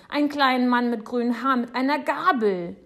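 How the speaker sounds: fast, high, loud insistence; shouting. A narrator's reading. Boy describing the Nix as proof, shouting high. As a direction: rattle it out at a shout. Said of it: "schreit Jonathan".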